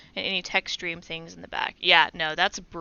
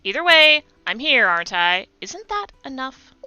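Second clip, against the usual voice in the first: put-on Valley Girl accent; 5 dB louder than usual. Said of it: "a Valley Girl accent for this character".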